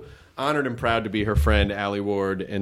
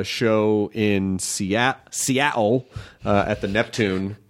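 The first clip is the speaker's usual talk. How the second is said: put-on Cockney chimney sweep accent, Seattle as "see-al"; British chimney sweep; much slower than usual.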